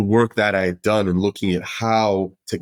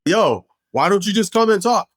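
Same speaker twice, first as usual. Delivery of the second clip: casual offer pitched much higher; Dave's invite; 10 semitones higher than usual. Retold or imitated. Dave inviting Derek to come and talk, high breezy voice. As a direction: toss it off like a friendly dare. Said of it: "he's like".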